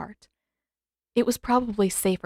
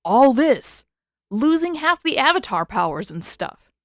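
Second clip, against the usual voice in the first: lightly voiced young woman, raised and pleading; a hint of a frustrated heroine; Katara's voice; 5 semitones higher, 4 dB louder than usual. Character voice in read story.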